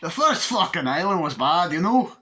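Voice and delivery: retried impression. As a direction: have another go at the movie voice, hammed up. Second go at botched impression.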